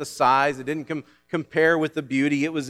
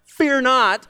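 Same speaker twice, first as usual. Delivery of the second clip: loud, high battle cry; a commanding officer sending warriors into battle; commander's yell; 9 semitones higher, 8 dB louder than usual. Acted. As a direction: yell it to troops heading into battle. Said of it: "would yell out".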